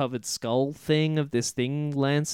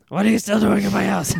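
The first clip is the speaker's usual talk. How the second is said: higher, hammed-up old witch voice; put-on witch voice; 5 semitones higher, 3 dB louder, faster than usual. Shown as a demonstration. Witch telling the grieving father to get out of her shack, in a higher put-on witch voice. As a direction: redo the line properly as the cranky witch.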